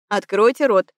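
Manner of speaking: громкий мужской приказ, другим голосом; скомандуй резко, как начальник. A narrator's reading. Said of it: "вдруг приказал голос". (начальник велит больной Нине, повелительно)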